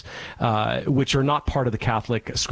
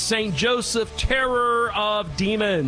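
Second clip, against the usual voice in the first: higher, quick, solemn benediction cadence; prayer blessing; 6 semitones higher than usual. Acted. Priest blesses the radio listeners at show's end, solemn prayer voice. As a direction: intone a blessing over the listeners, briskly.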